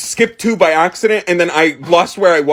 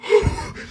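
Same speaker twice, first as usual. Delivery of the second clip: imitated breath out; 5 dB quieter than usual. Imitates noise before throwing up.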